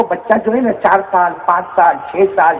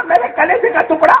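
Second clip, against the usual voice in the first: anguished cry; 11 semitones higher than usual. Acted. Mother cries out at wounded son.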